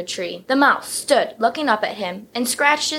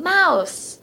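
screamed warning; 8 semitones higher than usual. A narrator's reading. Jokester elephant scaring his family, high scream. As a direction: shout it to scare the family. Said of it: "just Ronald screaming".

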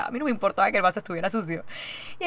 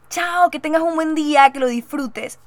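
cheerful goodbye; 7 semitones higher, 7 dB louder than usual. Retold or imitated.

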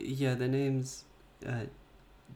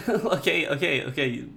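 laughing; 3 dB louder than usual. Real, not acted. Laughing through being tickled.

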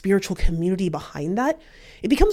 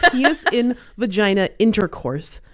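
laughing. Real, not acted. Laughing through the phrase.

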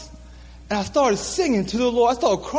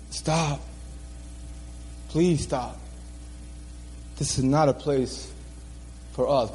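soft pleading; 8 semitones lower, 6 dB quieter than usual. Retold or imitated. Retold phone call pleading.

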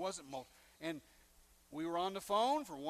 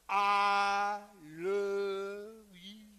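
loud, drawn-out I love you; big heartfelt declaration; earnest confession; 6 dB louder, much slower than usual. Retold or imitated. Planned confession, voiced loud and far.

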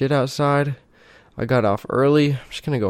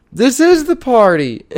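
mock deadpan reply; 12 semitones higher, 6 dB louder than usual. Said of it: "Chase is like".

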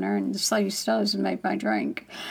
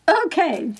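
higher, exasperated okay; giving in; 7 semitones higher, 3 dB louder than usual. Retold or imitated. Finally giving in to the voice's request, reluctant. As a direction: give up with a raised, reluctant okay. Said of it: "I finally give it up".

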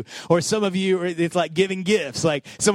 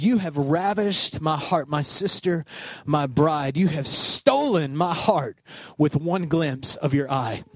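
tender scripture reading; 5 semitones lower, slower than usual. Acted. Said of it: "verse nine, it says".

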